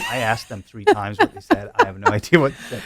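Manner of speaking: laughing through a mock-helpless complaint; half-laughing, overwhelmed by what she couldn't understand; laughing exasperation. Radio station worker to colleague, laughing, helpless. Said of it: "be like".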